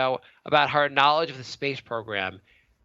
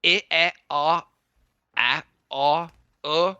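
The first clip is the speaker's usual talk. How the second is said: caveman grunting vowels; slower than usual. Pretend. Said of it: "sound like a goddamn caveman".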